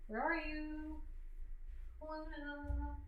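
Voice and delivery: very high, sing-song cooing at the dog. Real, not acted. Owner coos to her dog.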